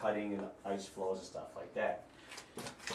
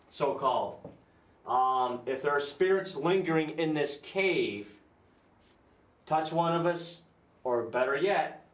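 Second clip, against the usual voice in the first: talking to a ghost; 3 semitones higher than usual. Real, not acted. Addressing spirits in the cave.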